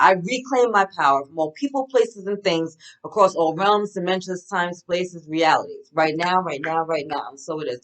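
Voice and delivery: declared like a prayer, steady and firm; power affirmation. Acted. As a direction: proclaim it as a solemn affirmation. Spoken affirmation, reclaiming power.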